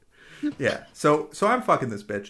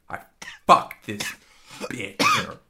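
Billy Crystal impression; 4 semitones lower than usual. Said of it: "I was just be doing Billy Crystal there".

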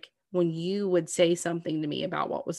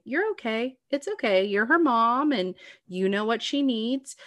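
higher, soothing reassurance; reassuring; 5 semitones higher, 3 dB louder than usual. Retold or imitated. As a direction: tell her she's doing fine. Supporting friend with postpartum anxiety.

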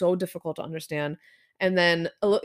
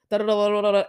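rattled-off babble of syllables; mock fast talk; 5 dB louder, faster than usual. Friend imitates Ruth's rapid Irish talk, mock fast babble. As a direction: imitate someone talking too fast to follow. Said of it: "they talk so fast".

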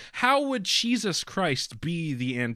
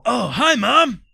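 loud, much higher cartoon voice; high-pitched character voice; 11 semitones higher, 9 dB louder, slower than usual. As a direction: squeal the greeting up high. Son character greeting mom.

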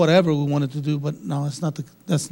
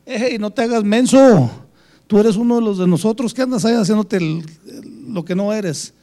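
louder, higher retold call-out in Spanish; teasing call-out; 4 semitones higher, 5 dB louder than usual. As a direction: imitate friends calling out their pal's act. Friends call him out in Spanish.

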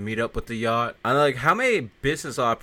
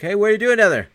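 higher, louder mock yell; imitated yell; 10 semitones higher, 8 dB louder, faster than usual. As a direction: call out like someone yelling at him. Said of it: "someone else starts yelling at him".

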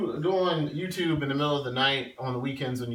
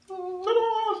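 ta-da reveal. Pretend. Reveal of second Switch.

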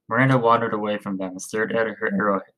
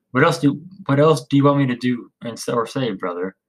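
frustrated outburst; 2 semitones higher than usual. Acted. Marcus snapping back at his brother, frustrated. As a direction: push back at him, exasperated. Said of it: "allowing his frustration to become over".

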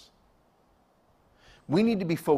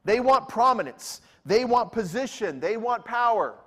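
building emphasis; 6 semitones higher, 4 dB louder than usual. Real, not acted. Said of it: "preacher's rising list".

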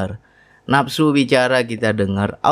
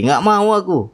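higher, mild retold shout; mock yell; 8 semitones higher than usual. Man shouting at himself alone, mild mock yell. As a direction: cry out the refusal, a touch raised. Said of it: "teriak sendiri".

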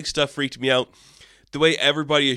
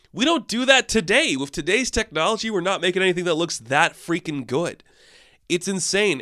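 excited; 5 semitones higher than usual. Real, not acted. Enthusing about the visuals.

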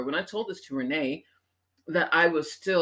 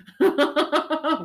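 high laugh; 9 semitones higher, 5 dB louder than usual. Real, not acted. Laughing at her own rant, a high burst.

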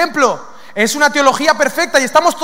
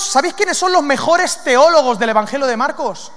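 usual speaking voice

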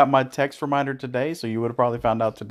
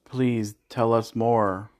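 slow, dry sarcastic drawl; much slower than usual. Real, not acted. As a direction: say it slowly with mocking interest. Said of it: "in this sarcastic tone".

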